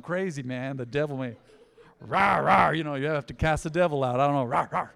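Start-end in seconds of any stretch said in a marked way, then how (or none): 2.0-2.7 comic roaring noises; mock growling "rah, rah". Imitating casting the devil out. 4.4-4.9 half-hearted comic roar; mock "rah, rah". Imitating casting the devil out.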